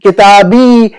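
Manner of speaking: "किताबी" with a long, held final vowel; drawn-out ending. Shown as a demonstration. Teacher showing the joined pronoun, last vowel held long. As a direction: stretch out the end of "किताबी".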